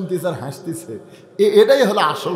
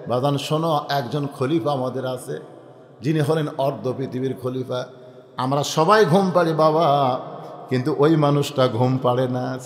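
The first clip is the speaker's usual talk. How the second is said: tender storytelling; 5 semitones lower than usual. Acted. Father tells son bedtime story.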